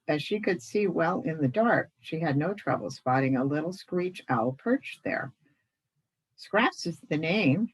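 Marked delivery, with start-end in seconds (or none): 6.4-7.7 saucy. Acted. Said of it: "she said in her saucy voice".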